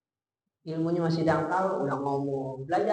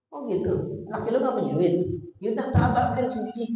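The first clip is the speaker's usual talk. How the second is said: slightly higher, quick dismissive jab; mild mock scorn; 4 semitones higher, faster than usual. Shown as a demonstration. Father belittling son-in-law while offering the washing machine, lightly mocking. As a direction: brush off the husband as useless. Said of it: "Terus singgung suaminya".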